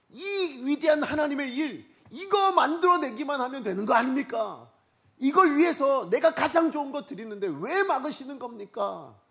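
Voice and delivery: high, loud pleading challenge; impassioned protest. Acted. David asking God why he blocks the offering, impassioned protest. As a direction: protest at full pulpit volume.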